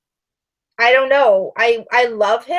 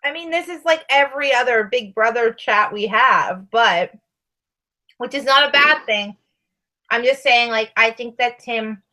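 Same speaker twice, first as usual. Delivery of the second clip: talking around chewing gum. Real, not acted. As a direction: chew gum while you talk. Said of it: "I have a piece of gum in my mouth".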